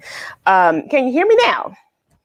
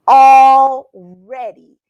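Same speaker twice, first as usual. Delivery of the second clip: mock amazed; 3 semitones higher, 10 dB louder, much slower than usual. Real, not acted. Announcing July, drawn out.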